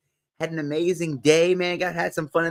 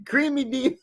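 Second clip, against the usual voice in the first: high, laughing over the name; 8 semitones higher than usual. Real, not acted. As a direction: read the name while cracking up. Laughs at funny username.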